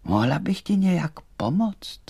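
high-pitched doll; high, small storybook doll; doll's voice. A narrator's reading. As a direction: offer help in a high little voice. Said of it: "řekla panenka".

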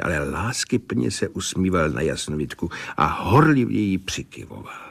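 ordinary delivery

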